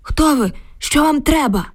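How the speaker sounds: put-on high startled old man's cry. A narrator's reading. Old neighbour startled by an axe-wielding woman, crying out. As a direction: gasp it out, caught off guard. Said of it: "від несподіванки скрикнув".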